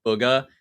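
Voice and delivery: Booga with a short "oo" as in book; first vowel of Booga like the one in good; old pronunciation. Shown as a demonstration. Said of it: "I honestly don't think I've heard anyone say that".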